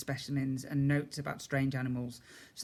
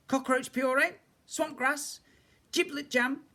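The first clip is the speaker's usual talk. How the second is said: much higher cook's voice, listing to herself; mumbling cook; 12 semitones higher, 4 dB louder than usual. A narrator's reading. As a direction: rattle off the ingredients under her breath. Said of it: "she mumbled to herself".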